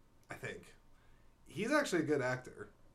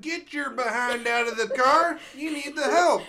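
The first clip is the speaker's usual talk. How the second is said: angry yelling; 13 semitones higher, 10 dB louder than usual. Retold or imitated. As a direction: yell orders at them. Voicing angry farmer in scene.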